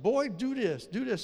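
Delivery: a hint of a mother ordering her boy; mother's order. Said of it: "My mother always said".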